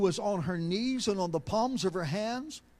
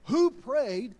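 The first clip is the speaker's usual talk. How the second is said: a firm, demanding question; 3 semitones higher, 4 dB louder than usual. Retold or imitated. Daughter cross-examining her father, demanding. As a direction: press for an answer, louder.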